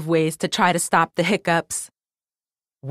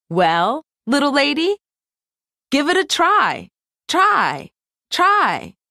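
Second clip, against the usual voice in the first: echoing microphone voice; 7 semitones higher than usual. Acted. Millie voiced, echoing herself.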